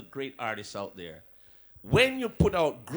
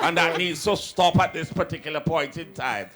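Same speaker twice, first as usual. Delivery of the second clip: mock aristocrat; 5 dB louder than usual. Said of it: "the little aristocrat then".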